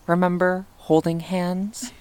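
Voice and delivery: remember said with a rising tease; teasing plain question. Acted. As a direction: stretch remember up playfully. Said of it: "teasing question".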